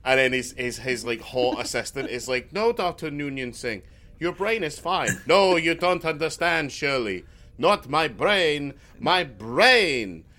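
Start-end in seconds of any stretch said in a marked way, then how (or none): 2.5-10.2 melodramatic mock-anguished doctor, loud on the last words; lightly voiced Mel Brooks hero; hammed-up Mel Brooks scientist. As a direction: overplay the despairing scientist. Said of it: "it's like a Mel Brooks comedy".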